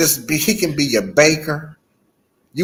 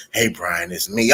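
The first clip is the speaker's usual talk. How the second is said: 1 creepy greeting; 2 semitones lower, 4 dB quieter than usual. Retold or imitated. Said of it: "I'm just gonna be waking up".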